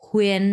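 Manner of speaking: হুয়েন gliding from oo into en; careful, held teacher's হুয়েন; correct pronunciation. Shown as a demonstration. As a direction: model হুয়েন as hoo-en in one syllable. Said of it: "এটার উচ্চারণ হবে".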